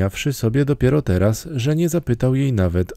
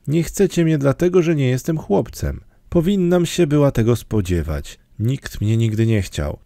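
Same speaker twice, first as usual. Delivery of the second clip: distressed; 5 semitones higher than usual. Acted. Orphan girl realizing she's unwanted.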